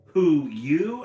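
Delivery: owl's startled reply; owl asking. Acted. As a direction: ask it back startled. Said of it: "asked Owl".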